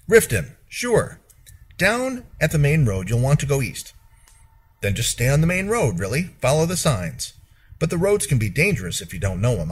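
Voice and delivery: a hint of a chatty local giving directions; stable hand. Stable hand tells the traveler the road to Riften, lightly voiced.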